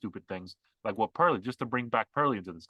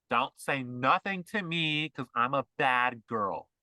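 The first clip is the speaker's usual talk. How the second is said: slow, drawn-out mock bad girl; lightly mock a self-styled boss girl, dragging the words; bad girl impression; slower than usual. Mocking the boss women he describes, slow bad-girl drawl. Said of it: "that's what they sound like".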